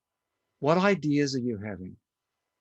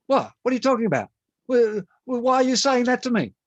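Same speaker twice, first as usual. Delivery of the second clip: rising, louder indignant protest; indignant outburst; 10 semitones higher, 6 dB louder, faster than usual. Retold or imitated. Client bristling at the therapist's words, indignant outburst. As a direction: push back, offended and baffled.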